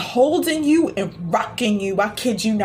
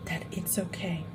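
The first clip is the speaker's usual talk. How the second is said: soft, much quieter "okay" nearly breathed; hushed reassurance; 5 semitones lower, 14 dB quieter than usual. Acted. Healer soothing Sophia through tears, hushed and soft. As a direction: let it drop to a hush.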